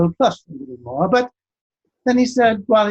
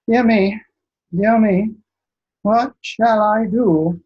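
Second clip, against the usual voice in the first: put-on higher, slow anxious old king; fretting king; 3 semitones higher, slower than usual. King frets over his scorched champion, high and dithering. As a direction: wring your hands and dither, higher and slow.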